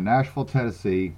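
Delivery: Southern "Nashville", second syllable reduced to "ful"; Southern accent. Real, not acted. Host owning up to his upbringing, Southern accent. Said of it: "I just can't help that Southern upbringing of mine".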